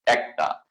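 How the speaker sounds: একটা said as "aek-ta"; correct Bengali pronunciation. Shown as a demonstration. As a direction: open the first vowel of একটা to "ae". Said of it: "শুদ্ধ উচ্চারণ হচ্ছে".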